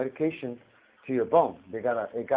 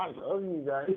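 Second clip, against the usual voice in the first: gushing gratitude; 5 semitones higher, 3 dB quieter than usual. Retold or imitated. Gushing to doctors, ends laughing.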